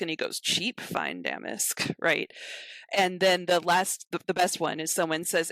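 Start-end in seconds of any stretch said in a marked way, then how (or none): 0.4-1.9 slow, breathy, sneering devaluation; sneering whisper. Retold or imitated. Spider fence sneering at stolen damask, slow whisper. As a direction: hiss it out slowly, scoffing at the goods.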